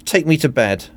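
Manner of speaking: very high, fluttery seductress; hammed-up swooning femme fatale; fluttering. A narrator's reading. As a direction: flutter and gush, pitched right up. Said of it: "Scarlet fluttered".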